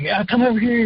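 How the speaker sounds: high hollered hey man across the hall; buddy hollering across a trade show; hollered greeting. Retold or imitated. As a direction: call out high to catch a passing friend. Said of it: "he hollers".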